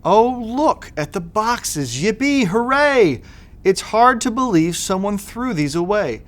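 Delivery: high, delighted discovery of boxes; excited kids. Acted. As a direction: gush like a thrilled child.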